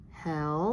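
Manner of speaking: "helmet" as hel, long pause, met; split into syllables. Shown as a demonstration. Teacher reading a new word, "helmet", syllable by syllable. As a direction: leave a clear gap inside "helmet". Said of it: "let's say the word".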